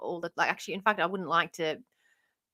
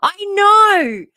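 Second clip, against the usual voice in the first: laughing wail; 10 semitones higher, 12 dB louder than usual. Real, not acted. Laughing wail at chat roast.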